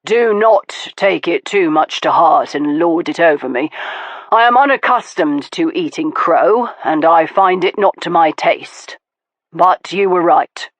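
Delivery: lightly voiced man, wry and self-mocking; Stoker, rueful. Stoker teasing Veronica while eating crow, wry. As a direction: laugh at yourself a little.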